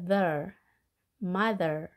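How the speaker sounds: "mother" with a light TH, tongue tip between the teeth; TH sound. Shown as a demonstration. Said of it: "혀 끝을 치아 사이에 물고 가볍게 발음하죠". ("mother"의 TH를 혀끝을 물고 가볍게 발음)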